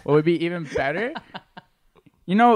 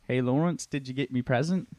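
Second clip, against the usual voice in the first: put-on English accent; 2 semitones lower, 4 dB quieter than usual. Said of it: "Sorry, that was Australian".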